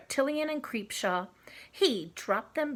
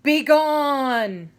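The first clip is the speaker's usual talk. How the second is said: loud booming command; loud tiger command; 3 semitones higher, 11 dB louder than usual. Acted. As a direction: banish them with one word. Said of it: "the great white tiger commanded".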